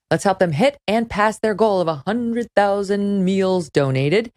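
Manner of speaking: upbeat sponsor read, brisk in spots. Acted. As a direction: pitch the sponsor like a podcast host.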